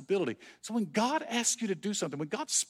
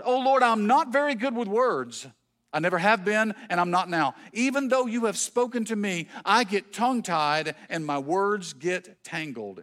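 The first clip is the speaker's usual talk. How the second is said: pleading; 2 semitones higher, 3 dB louder than usual. Retold or imitated. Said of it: "Pleaded with the Lord".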